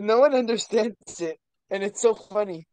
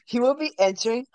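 sports announcer. Pretend. Mock sports announcer hype.

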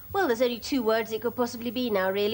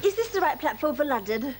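blocked-nose voice. Acted. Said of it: "with this nose, I can't say my N's properly".

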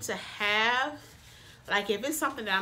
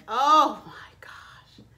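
breathless whispered gasp of awe; awed whisper; 8 dB louder, much slower than usual. Real, not acted. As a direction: whisper it like you can't believe your eyes. Awed reveal of the palette.

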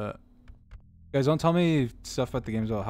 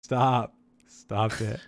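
scared horror game streamer; 4 semitones lower, 3 dB quieter, much slower than usual. Real, not acted. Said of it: "My heart is beating".

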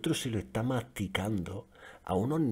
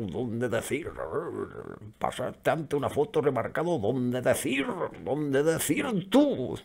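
caveman talk; 4 semitones higher, slower than usual. Retold or imitated. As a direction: play a furious caveman swinging a club. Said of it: "con el taparrabo en la puta cueva".

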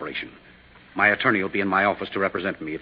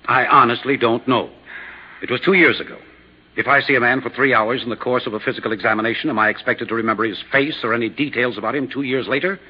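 rising to a defensive shout, louder; 4 semitones higher, 5 dB louder than usual. Acted. Doctor cornered by the investigator, loud defensive protest. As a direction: protest loudly that he can't remember a face. Doctor pressed about the corpse.

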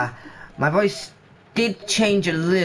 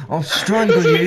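laughing threat; 5 dB louder than usual. Acted. Threatening in pretend fight.

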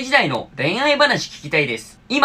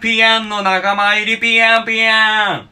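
japanese gyaru slang; 3 semitones higher than usual. Real, not acted.

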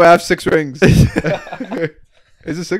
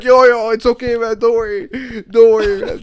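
mock reassuring friend; 8 semitones higher, 3 dB louder than usual. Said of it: "Steven be like".

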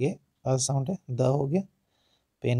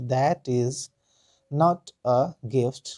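slow, drawn out; much slower than usual. Shown as a demonstration. Teacher drawing the sentence out slowly. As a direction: stretch each word slowly. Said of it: "यहाँ पे time लेंगे".

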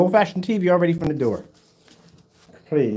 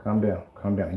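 shushed then softer, lower "calm down"; mock soothing; 8 semitones lower, 9 dB quieter than usual. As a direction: settle him like a fussy baby, teasing. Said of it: "I'm gonna calm you down".

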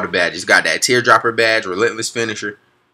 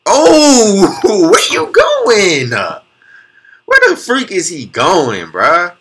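much higher, slow, cracking up; laughing disbelief; 8 semitones higher, 4 dB louder, much slower than usual. Real, not acted. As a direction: howl at the defender falling over. Laughing at ankle-breaking crossover.

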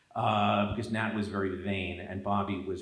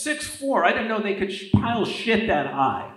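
high, loud, incredulous outburst; wrathful coach; 10 semitones higher, 9 dB louder than usual. Retold or imitated. Coach cursing his favorite player at practice, loud retold wrath. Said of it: "even he didn't escape his wrath".

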